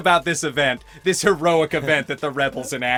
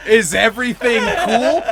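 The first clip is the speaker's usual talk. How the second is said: genuine concern; 4 semitones higher, 5 dB louder than usual. Retold or imitated. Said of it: "he was like".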